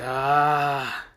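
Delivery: long, drawn-out exasperated "ah"; annoyed groan. Acted. Konohamaru losing patience with Baruto's nodding, annoyed groan. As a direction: let out a held groan of irritation. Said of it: "Konohamaru's just getting annoyed".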